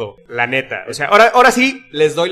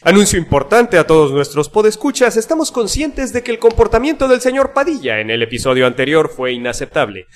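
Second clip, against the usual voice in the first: mock-solemn public statement; formal announcement; 3 semitones higher than usual. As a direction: read out like an official communiqué. Vamos a leer al pie de la letra.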